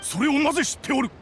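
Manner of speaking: high, quick, startled question. Acted. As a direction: caught off guard, asking fast. Startled adeptus asks how. (驚いて早口で問う)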